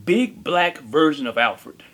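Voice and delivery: big black version of Alfred, said slowly and drawn out; slow, drawn-out phrase. Shown as a demonstration. Repeated phrase, first take.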